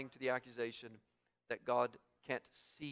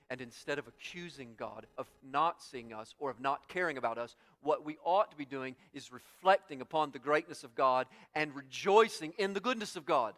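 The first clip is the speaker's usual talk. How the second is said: building to loud, emphatic preaching; 7 dB louder than usual. Acted. Preacher urging the congregation to rejoice in God, rising preaching. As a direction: drive the contrast home, getting louder.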